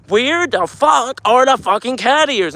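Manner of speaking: high, slow outraged yell; angry. Retold or imitated. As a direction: stretch it out, fed up. Outraged rant at coworkers.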